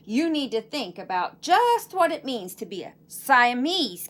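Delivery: lively read-aloud storytelling voice; story narration for children. A narrator's reading. Teacher reading a picture book to her class, lively narration.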